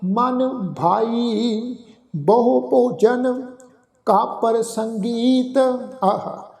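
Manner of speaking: slow, measured recitation of gurbani, phrase by phrase; scripture recitation. Acted. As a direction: chant each line devoutly with pauses.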